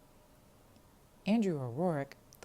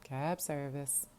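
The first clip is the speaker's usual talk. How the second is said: tired; much slower than usual. Acted. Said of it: "He sounded tired".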